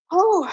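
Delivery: out-of-breath whew; breathless exhale. Real, not acted. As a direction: blow out a tired breath. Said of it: "I'm out of breath a little bit".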